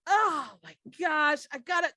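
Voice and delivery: high, loud flustered outburst; a boss sputtering as water soaks him; flustered cursing. Acted. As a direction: sputter in outrage at the spill. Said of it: "screaming obscenities".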